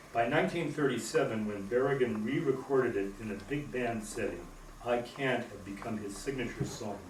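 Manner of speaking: measured, clearly articulated poetry reading; poem reading. Acted. Poet reads a history poem about a signature song to an audience, measured reading. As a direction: read it out evenly, phrase by phrase.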